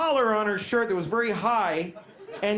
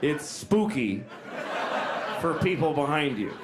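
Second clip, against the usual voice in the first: a hint of a lower, calm doctor, with laughs; imagined doctor; 6 semitones lower than usual. Doctor advising the old lady about her collar, low and dry. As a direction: play the frank doctor, lightly voiced. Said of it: "He could have said to her".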